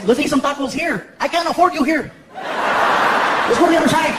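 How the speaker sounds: a hint of an imitated friend urging you along; Paul Rodriguez. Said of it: "He shows up to the club and he says".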